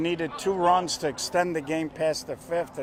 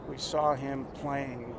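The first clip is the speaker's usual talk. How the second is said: golf announcer voice; 8 dB quieter than usual. Acted. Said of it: "I'm gonna go to my golf announcer voice".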